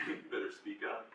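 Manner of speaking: soft, half-whispered prod; hushed nudge. Retold or imitated. God nudges the speaker in the circle, hushed urging. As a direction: murmur it as a private order. God's nudge retold, first take.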